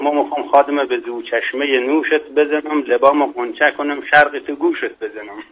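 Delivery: comic verse in Mashhadi Persian accent. Shown as a demonstration. Guest quoting a local joke verse for the host, Mashhadi accent. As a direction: say the rhyme with a Mashhad dialect lilt. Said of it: "با لهجهٔ شیرین مشهدی".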